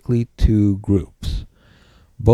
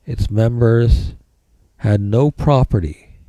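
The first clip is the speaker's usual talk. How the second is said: dictating. Shown as a demonstration. Dictating a definition.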